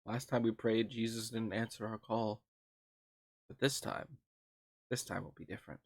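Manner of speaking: low, hushed and ominous; a spooky, dramatic near-whisper. Pretend. Mock-ominous prayer pun.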